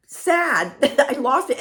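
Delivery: high, loud words broken by a laugh. Real, not acted. Telling viewers how kind the couple was, high and laughing. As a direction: laugh through it, emotional and high.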